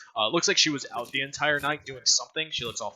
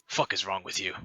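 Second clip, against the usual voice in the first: mocking thug; 3 semitones lower than usual. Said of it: "And he's like".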